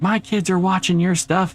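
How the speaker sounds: indignant high-pitched mock parent; angry parent. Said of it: "gotten angry messages".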